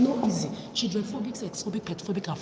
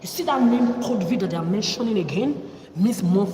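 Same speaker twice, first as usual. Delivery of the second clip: hateful shout; 2 semitones higher, 6 dB louder than usual. Real, not acted. Cursing men with hatred.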